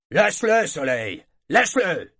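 loud, high order to the bear; firm command. A narrator's reading. Le dresseur ordonne à son ours de lâcher, ordre fort. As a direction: bark the order at the animal. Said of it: "ordonna le dresseur".

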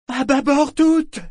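high, slow, ringing yell; shouted helm order. A narrator's reading. Liveship answering the boy at the helm, shouting. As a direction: call it out across the storm. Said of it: "lui répondit Vivacia".

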